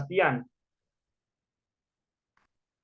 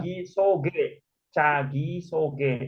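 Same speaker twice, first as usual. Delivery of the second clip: slow model phrase; slower than usual. Shown as a demonstration. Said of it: "Beda nanti penekanannya".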